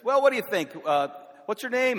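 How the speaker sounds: father booming across the breakfast table to the waitress; loud. Retold or imitated. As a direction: call it out so the whole restaurant turns. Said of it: "Says it so loud".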